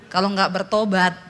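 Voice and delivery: ordinary talk, nothing marked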